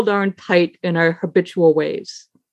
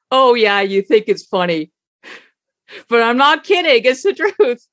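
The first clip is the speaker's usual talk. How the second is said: mildly offended retort; 4 semitones higher than usual. Retold or imitated. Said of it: "he got even more upset".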